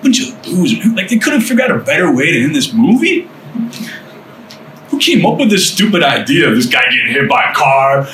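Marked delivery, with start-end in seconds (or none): 0.0-6.5 higher-pitched scornful heckling; mock a bad movie ending; scoffing inner voice. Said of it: "I heard that voice all the time".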